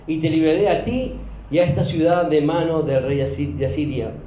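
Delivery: measured, solemn Bible reading; scripture reading. Acted. Pastor reading the story of Ezequías to the congregation, solemn.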